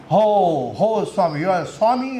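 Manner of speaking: imitating a foreigner's accent, drawn-out "Ho"; lightly put-on foreign visitor's accent; mock foreign accent. Foreign visitor greeting a swami at the ashram, mock foreign accent. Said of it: "in that typical accent".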